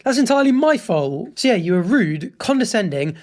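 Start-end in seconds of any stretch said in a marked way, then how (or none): 0.1-1.4 higher-pitched acted apology; mock contrite admission, pitched up; imagined apology. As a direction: model an emphatic owning-up. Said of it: "you should have apologized for being like".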